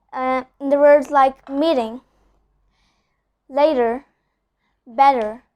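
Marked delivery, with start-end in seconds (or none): 1.5-5.4 meeting, later, better with the T as a soft D; soft flapped T. Shown as a demonstration. Teacher showing the soft D sound. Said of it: "instead of telling meeting".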